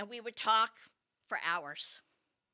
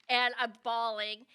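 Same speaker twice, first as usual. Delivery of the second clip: ordinary talk, nothing marked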